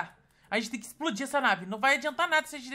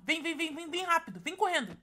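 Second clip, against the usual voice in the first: urgent; 4 semitones higher than usual. Real, not acted. Hurrying partner away from the alien.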